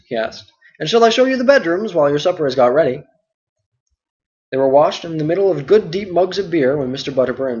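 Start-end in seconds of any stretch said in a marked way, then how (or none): 0.8-3.0 a higher servant calling back; hurry-up reply from another room; Nob's eager reply. Acted. Nob continues.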